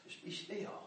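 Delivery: very soft, near silence; almost no breath behind it; hushed "be still". Acted. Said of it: "wants to be still".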